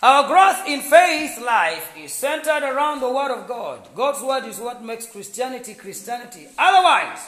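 emphatic preaching, loud on key words. Real, not acted. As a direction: drive the point home to a congregation. Preacher drives home a point.

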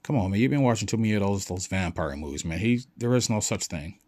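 loud, quick, scoffing friend; acted, fed-up debunking; exasperated dismissal. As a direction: talk him out of his nonsense. Acted friend rebuts the vampire story.

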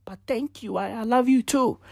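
high squeaky shocked reaction, then a laughing thanks; high startled shock. Retold or imitated. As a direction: act floored then grateful. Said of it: "You be out there like".

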